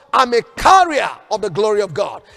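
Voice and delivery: ringing declaration for all to repeat; shouted declaration. Shown as a demonstration. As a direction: shout it like a rallying cry.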